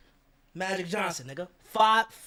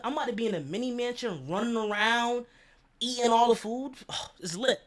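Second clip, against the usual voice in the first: giddy excitement; 6 semitones higher than usual. Retold or imitated. Giddy about mansion life.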